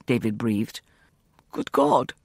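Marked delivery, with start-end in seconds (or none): 1.5-2.1 sharp high gasp of shock; shocked exclamation. Acted. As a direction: blurt it out in horror.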